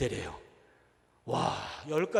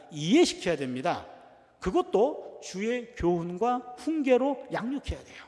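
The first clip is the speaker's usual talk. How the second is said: preaching; 4 dB louder than usual. Acted. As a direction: press each prohibition home to the congregation. Pastor's exhortation to congregation.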